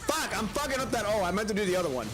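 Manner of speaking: raging gamer. Real, not acted. Messing up the combo.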